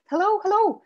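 high, loud, gushing hello; bright eager hail across a parking lot; overeager greeting. Acted. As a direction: greet a stranger like a long-lost friend. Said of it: "as if he was our long-lost friend".

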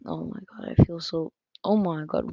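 breathing hard into the mic; breathy, tense breathing. Real, not acted. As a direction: air heavy on every word. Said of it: "why is this picking up my breath".

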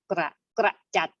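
"กระ กระจัด" with k and r sounded together; blended cluster. Shown as a demonstration. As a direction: demonstrate "กระ กระจัด", first two consonants blended clearly. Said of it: "พยัญชนะต้น แล้วก็พยัญชนะตัวที่สองพร้อมกัน". (ออกเสียง "กระ กระจัด" โดยควบ ก กับ ร พร้อมกัน)

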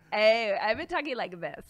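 put-on voice of a big tough woman; mock the strongest wrestlers' odd voices; silly wrestler voice. Co-host joking about wrestlers' voices, mocking put-on voice. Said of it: "have these voices that are like".

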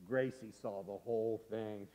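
soft, low ominous narration; hushed reveal. A narrator's reading. Storyteller reveals sister witnessed it all, hushed. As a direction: let the secret out quietly.

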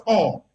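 all said as if in capitals, firm and deliberate; stress on ALL. Shown as a demonstration. Lawyer on air stressing the quorum rule, punching all. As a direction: lean hard on the word all. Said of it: "I'm emphasizing the word all in capital letters".

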